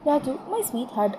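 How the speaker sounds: slow, soft and drawn out; dreamy lovestruck. Acted. Girl on phone to friends swooning over Raju, slow and soft. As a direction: savour his name like a sweetheart. Girl gushing about her lover.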